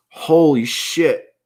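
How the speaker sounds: slow pained groan; sore muscles. Real, not acted. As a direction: strain through the soreness. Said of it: "I'm so sore".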